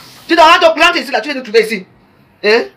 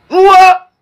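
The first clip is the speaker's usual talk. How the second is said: surprised wow; 8 semitones higher, 7 dB louder than usual. Real, not acted. Exclamation mid live rant.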